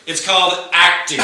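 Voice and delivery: shouted mock retort dissolving into laughter; laughing shout. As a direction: fire back in jest, then laugh.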